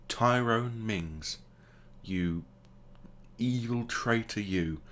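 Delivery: theatrical, weighty pauses between accusing words; mock denunciation. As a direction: call out the traitor with mock outrage.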